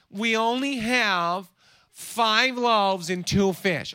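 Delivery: slow, drawn-out whine; slow mock whine about having little; whining. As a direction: whine it like a complaining kid. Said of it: "the complaining and the whining".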